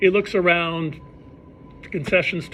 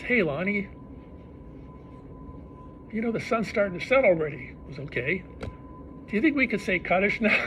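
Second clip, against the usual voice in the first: Yankel's voice; 3 semitones higher, 5 dB quieter than usual. Retold or imitated.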